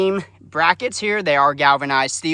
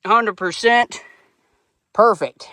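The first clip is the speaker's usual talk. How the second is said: pleased; 7 semitones higher, slower than usual. Real, not acted. Level reading shows perfect.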